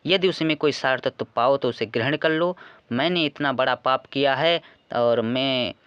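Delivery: lightly voiced pleading queen, emphatic phrasing; a teacher lightly acting out a mother's confession, phrase by phrase; Kaikeyi. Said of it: "Kaikeyi जी कहती हैं कि".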